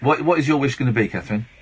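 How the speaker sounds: fast, rushed retake of the wish line; quick genie line. Retold or imitated. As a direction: rattle it off quickly. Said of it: "No, I, I've changed it".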